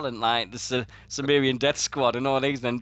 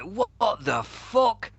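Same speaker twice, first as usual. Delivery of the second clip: shocked; 8 semitones higher, much slower than usual. Retold or imitated. Retold shock at Sabu.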